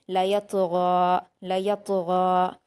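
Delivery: slow "लयतगा" with heavy gh and long final aa; full-mouthed ghain. Shown as a demonstration. Teacher showing a full ghain, drawn-out heavy "लयतगा". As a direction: make the gh of "लयतगा" thick, then stretch the vowel. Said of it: "गैन को भी पुर पढ़ेंगे".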